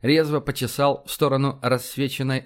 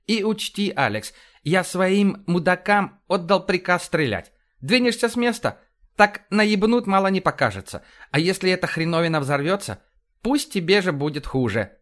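higher, lively commander voice; blustering, animated officer, pitched up; brash police commander; 5 semitones higher than usual. Acted. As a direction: rattle off orders like a blunt cop boss.

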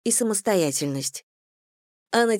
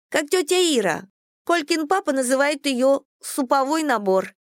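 put-on high, innocent child voice; chatty little girl, higher pitch; 8 semitones higher than usual. A narrator's reading. Child Dasha continues.

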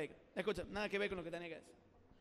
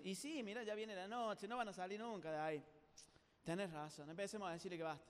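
low, soft conferring among frogs; resignado, en confidencia; 3 semitones lower, 8 dB quieter than usual. Acted. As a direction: give up on them under your voice. Frogs above confer gloomily. (en voz baja, con resignación)

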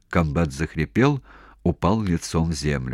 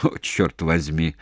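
exhaled; 2 semitones lower, slower than usual. Acted. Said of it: "выдохнул".

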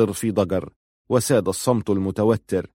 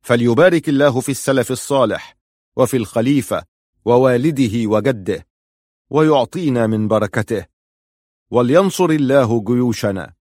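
public blessing; 2 semitones higher, 4 dB louder than usual. Acted. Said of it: "فقال".

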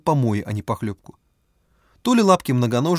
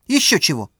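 higher scornful retort; defiant retort; 5 semitones higher, 3 dB louder than usual. A narrator's reading. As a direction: scoff at the idea. Oksana refuses.

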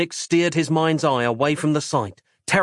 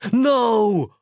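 sharp higher yell of refusal; 9 semitones higher, 4 dB louder than usual. Acted. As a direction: shout it out in panic. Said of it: "yelled Nick".

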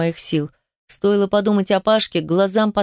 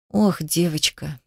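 slow, soft, lower sigh of pity; soft sympathy; 4 semitones lower, 4 dB quieter, slower than usual. A narrator's reading. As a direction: breathe it out gently to the crying girl. Director comforts crying girl. (мягко, с сочувствием)

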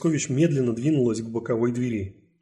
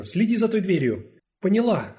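quick command; 7 semitones higher, 3 dB louder than usual. Acted. Quick orders while running.

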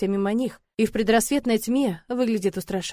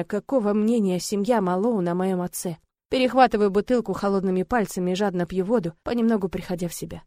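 ordinary delivery, nothing marked

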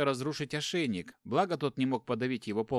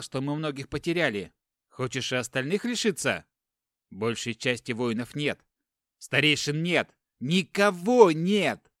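desperate; 5 dB louder than usual. Acted. Brother defends his choice, desperate.

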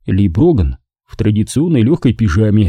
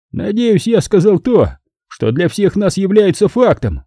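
firm, convinced; 9 semitones higher than usual. A narrator's reading. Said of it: "Его голос прозвучал твёрдо и убеждённо".

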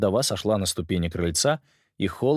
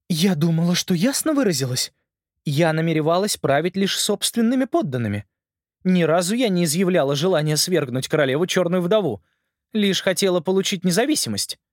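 lightly voiced uncertain queen; a queen admitting fault, unsure; hesitant queen voice; 9 semitones higher than usual. Ant Queen speaks.

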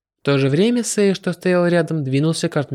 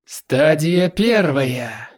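hissed; much slower than usual. Acted. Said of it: "прошипел".

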